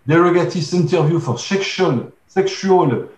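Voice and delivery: slow English read in a heavy French accent. Real, not acted. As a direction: work through the English term carefully in a French accent. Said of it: "excusez mon, mon anglais, mon accent".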